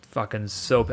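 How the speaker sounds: shaking voice. Real, not acted. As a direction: voice trembling with anger. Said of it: "I'm literally shaking right now".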